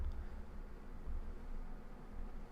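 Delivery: soft, low-key laugh; chuckle. Real, not acted. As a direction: chuckle quietly to yourself. Chuckles at a viewer's comment.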